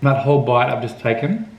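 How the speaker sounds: talking with teeth stuck together; chewing sticky toffee. Real, not acted. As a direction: speak through a sticky mouthful. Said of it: "is still in my mouth".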